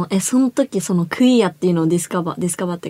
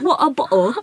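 put-on British accent; 5 semitones higher, much slower than usual. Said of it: "イギリスのアクセントになっちゃうね".

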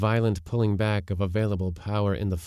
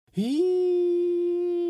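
shrill high eerie cry; high distant call; 3 dB louder than usual. A narrator's reading. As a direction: sing it high and far off. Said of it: "sang the voices far away".

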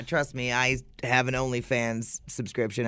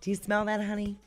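soft, high loving call; soft tender call; 4 semitones higher, 6 dB quieter, faster than usual. Pretend. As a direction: coo to a partner. Mock partner in bed.

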